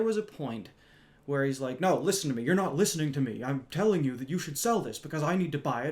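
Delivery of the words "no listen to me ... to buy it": louder, insistent imitation of an irate customer; mildly hammed-up angry man; mock angry customer. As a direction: push back hard, mimicking him. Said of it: "When he's yelling".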